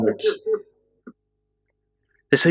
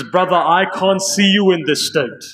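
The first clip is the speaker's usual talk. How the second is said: grieving reply; 7 semitones higher than usual. Acted. Hussein answers his dying brother.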